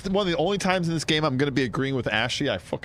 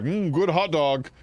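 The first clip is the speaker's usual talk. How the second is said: New Yorker; 3 semitones higher, slower than usual. Acted. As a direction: recount a crime like a Law and Order New Yorker. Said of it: "I talk like a New Yorker".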